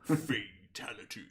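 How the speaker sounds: lightly voiced, slow announcer echo; a hint of drawn-out announcer voice; game announcer. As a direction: draw it out as a mild arcade verdict. Echoes the game announcer call.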